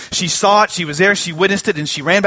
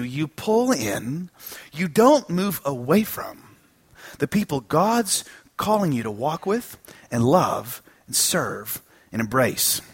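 tender appeal; 5 dB quieter, slower than usual. Acted.

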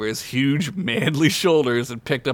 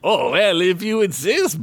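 louder, higher coy reply; modest; 6 semitones higher, 4 dB louder than usual. Acted. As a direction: act humble and a little flattered. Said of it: "Boris began to say modestly".

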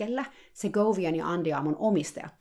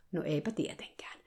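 dry whispered aside; 5 dB quieter than usual. Real, not acted. Telling listeners the therapist noticed nothing, whispered sarcastic aside. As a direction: let the sarcasm slip out under your breath.

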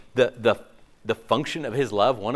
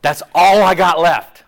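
God voiced pleading; 11 dB louder than usual. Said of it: "he's like".

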